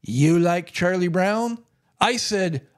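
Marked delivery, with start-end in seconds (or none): 0.0-1.6 imitated Russian accent, drawn out; thick Russian accent. Lady introduces herself to fellow Peanuts fan, imitated Russian accent. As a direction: slowly mimic a Russian woman's accent. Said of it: "in a very thick Russian accent".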